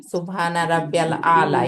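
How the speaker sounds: measured recitation of the prostration words; prayer recitation; recited prayer phrase. Shown as a demonstration. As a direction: recite it as in sajdah. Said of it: "এই যে সাব্বিহ ইসমা".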